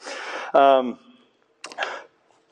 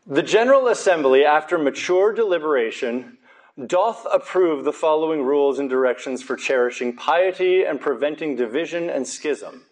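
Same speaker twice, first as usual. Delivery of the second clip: fake British accent. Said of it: "I'm speaking in a fake British accent".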